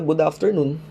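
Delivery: "Good afternoon" in American English, r sounded in "afternoon"; American accent. Shown as a demonstration. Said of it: "instead na".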